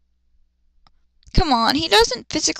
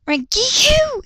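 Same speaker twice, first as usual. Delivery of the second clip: scream; 12 semitones higher, slower than usual. Acted. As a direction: yell her name across the room. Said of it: "he screamed".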